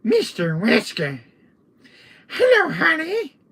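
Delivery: high, loud, teasing little villain; piping mock-villain hello; Salazar voice. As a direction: greet them in a silly high voice. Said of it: "impression of Salazar".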